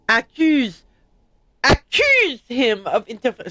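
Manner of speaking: mock accent read that came out loud; accidental shout. Shown as a demonstration. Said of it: "I didn't mean to scream that".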